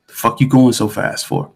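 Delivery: blunt, sweary traffic cop; mock rude cop. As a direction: exaggerate the officer's rudeness a little. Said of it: "he didn't say it like that".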